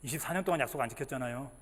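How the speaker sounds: low, hushed aside of disbelief; soft, low inner grumble; inward scoffing. Acted. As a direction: say it under your breath, privately doubting. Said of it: "속으로 웃으면서 그랬어".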